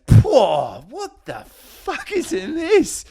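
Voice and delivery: high, slow spluttering coach voice, laughing through it; disgusted coach. Retold or imitated. Coach spitting out the drink, high disgusted splutter. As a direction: spit it out like a coach tasting urine.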